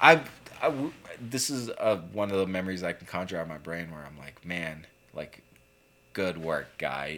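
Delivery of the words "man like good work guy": slow, mock sarcastic, tongue-in-cheek. Recalling an own past thought: imitating own sarcastic tone. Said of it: "in a sarcastic way".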